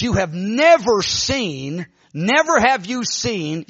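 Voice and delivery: slow, weighty prophetic cadence; lightly imitated prophetess stretching each word; prophesying woman. Woman prophesying to Augustine, slow solemn declaration. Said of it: "started prophesying".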